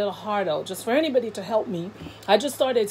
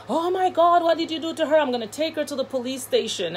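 alarmed auntie; 6 semitones higher, faster than usual. Retold or imitated. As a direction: imitate an auntie's shocked outcry. Voices alarmed auntie finding injured child.

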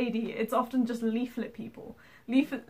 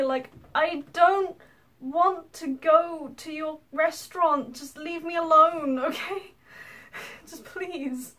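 slow, drawn-out fed-up plea; exasperated; 5 semitones higher, slower than usual. Retold or imitated. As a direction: let the annoyance stretch each word. Retold exasperation at leaflet pushers.

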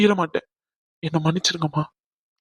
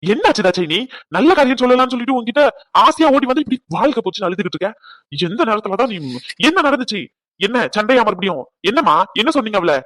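alarmed; 4 dB louder than usual. Acted. Husband alarmed at wife's weeping.

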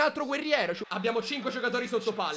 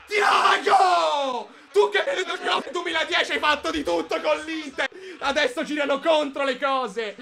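laughing gloat; 3 semitones higher than usual. Real, not acted. Gloating after the goal.

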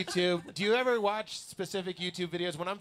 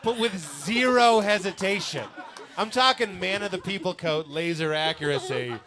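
laughing; 4 semitones higher, 7 dB louder than usual. Real, not acted. Laughing praise of the comeback.

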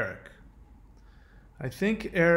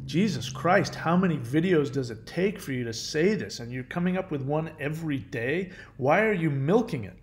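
mock exasperated rant. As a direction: exaggerate the irritation, for comic effect. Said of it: "I'm adding more to it".

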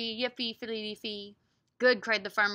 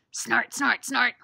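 loud, punchy snort chant; pig's snort words; 6 dB louder, slower than usual. Acted. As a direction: punch out each snort for children. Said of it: "help me say what pig says".

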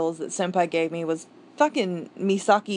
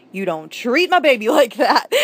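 laughing protest; 4 semitones higher, 5 dB louder than usual. Real, not acted. Protective outburst over favourite character.

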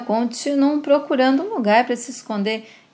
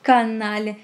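slow, drawn-out insult with contained fury; lightly acted seething outrage, very slow; agitated anger; slower than usual. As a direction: stretch the words out in bitter anger. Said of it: "Alberto fica muito nervoso e diz".

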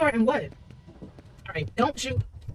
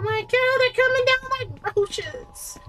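high, slow whisper; frightened whisper; 13 semitones higher, slower than usual. Real, not acted. Gamer whispering as enemies swarm. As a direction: breathe it out in alarm.

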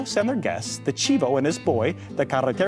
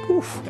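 high puffed-out sigh; stuffed, puffed exhale; weary oof. A narrator's reading. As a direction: let out an overfull oof. Cat full after big dinner.

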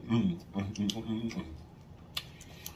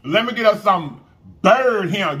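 high, loud sing-song call to the bird; coaxing a wild bird; 9 semitones higher, 6 dB louder than usual. Pretend. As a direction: coax it out like a shy pet bird. Calling the chicken like a pet.

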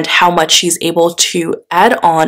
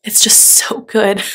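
awed whisper; 4 semitones higher, slower than usual. Real, not acted. Awed close-up of glistening foil.

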